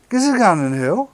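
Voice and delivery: broad Geordie, blunt and eager; Geordie patois. Retold or imitated. A Geordie punter asking for a go on the vape, in broad Geordie. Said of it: "don't speak the Geordie patois".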